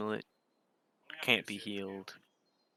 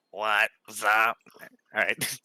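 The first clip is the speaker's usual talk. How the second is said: buzzy robotic voice-box hello, louder; electrolarynx voice; 6 dB louder, much slower than usual. Retold or imitated. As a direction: imitate a smoker's throat voice box. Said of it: "the smoker thing where it goes".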